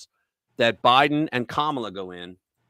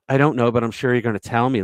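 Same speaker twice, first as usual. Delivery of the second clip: quick, mocking smart-ass comeback; smart-ass reply; 3 dB louder, faster than usual. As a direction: toss it off like a know-it-all. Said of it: "like a real fucking smart ass".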